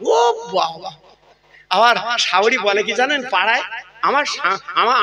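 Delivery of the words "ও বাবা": much higher, exclaiming in mock delight; mock delighted gasp. Preacher mimicking a flattered mother-in-law, mock delighted exclaim.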